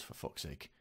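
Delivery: breathy exasperated whisper under the breath; soft whispered aside; whispered curse. Real, not acted. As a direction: hiss it in disbelief. Disbelief about the toddler's fear.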